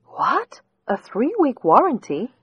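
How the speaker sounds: disbelieving question, pitch shooting up; shocked what. Acted. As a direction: react in sudden disbelief. Customer hears warranty expired.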